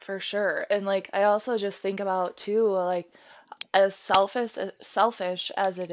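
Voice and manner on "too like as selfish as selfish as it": hushed, half-voiced admission; whispered aside. Real, not acted. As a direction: whisper it as if guilty.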